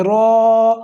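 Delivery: را said full and thick; heavy ra. Shown as a demonstration. Teacher showing students a heavy را, thick. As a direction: give را a full heavy sound. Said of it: "را کو پر پڑھیں گے".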